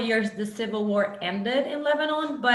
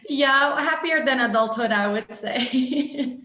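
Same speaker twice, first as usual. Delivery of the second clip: louder, amused wry remark; laughing; 3 semitones higher, 5 dB louder than usual. Real, not acted. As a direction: joke ruefully through a laugh. Wry joke about adulthood.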